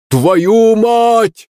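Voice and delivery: same man shouting in alarm; shouted curse. Acted. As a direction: blurt 'Твою мать' as a sharp loud yell. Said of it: "услышал я знакомый крик".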